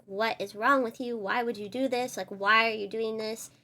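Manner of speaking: retold angry confrontation. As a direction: confront her, upset and accusing.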